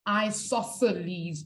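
isosceles said slowly as eye-SOSS-uh-leez; standard pronunciation. Shown as a demonstration. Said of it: "it's pronounced".

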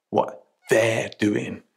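slow, pointed weight on "they're"; "they're" drawn out to single it out; stress on THEY'RE. Retold or imitated. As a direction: quote it slowly, leaning on "they're". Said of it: "the language they used".

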